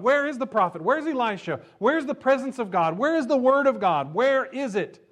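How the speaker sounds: loud, high, each WHERE hammered; preaching shout. Acted. Preacher voicing the student crying for the prophet. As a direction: build the cry to a peak.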